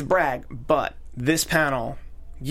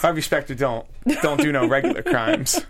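mock swagger; 4 semitones higher than usual. Mock tough-guy line.

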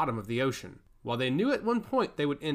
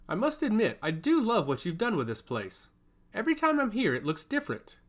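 higher, teasing menace; ominous; 8 semitones higher than usual. A narrator's reading. Lightly ominous god-touched servant praising the palace. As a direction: purr it like a veiled threat. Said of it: "ominous confession".

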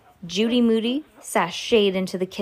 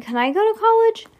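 put-on eager kid; 13 semitones higher, 5 dB louder than usual. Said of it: "Aw," Stink said".

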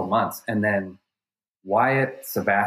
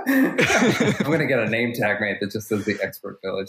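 laughing. Real, not acted. Joking through laughter.

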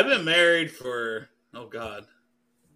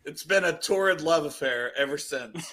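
laughing while talking. Real, not acted. Joking, laugh heard.

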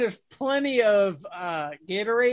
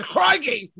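mock Australian exclamation; 5 semitones higher than usual. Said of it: "No, she says".

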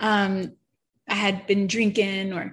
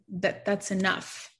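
firm but kind; slower than usual. Retold or imitated. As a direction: say it like a gentle but firm father. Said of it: "then he repeated it".

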